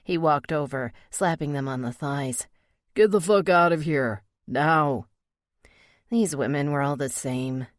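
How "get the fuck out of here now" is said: angry. Acted. Biker throws women out.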